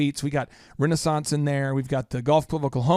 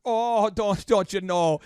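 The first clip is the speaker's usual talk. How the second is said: hammed-up Minnesota "don'tcha know"; mock Minnesota accent, drawn from the caller; 4 semitones higher, slower than usual. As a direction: play up a Minnesotan lilt. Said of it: "she's from Minnesota".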